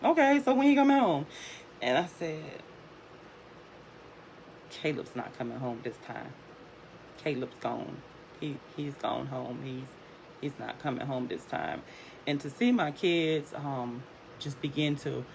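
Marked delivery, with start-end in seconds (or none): 0.0-1.3 put-on high, louder child's question; innocent, pitched-up kid voice; unknowing kids, imitated. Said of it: "And they were like". 4.7-11.8 hushed, subdued telling of a loss; quiet grave news. Retold or imitated. Breaking death news to kids.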